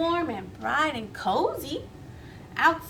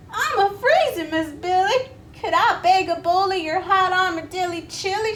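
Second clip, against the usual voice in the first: higher, louder shivering plea; chattering toad; 6 semitones higher, 4 dB louder, faster than usual. Acted. Freezing Taffy begs Miss Billy, high and shivery. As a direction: beg through chattering teeth. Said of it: "she chattered".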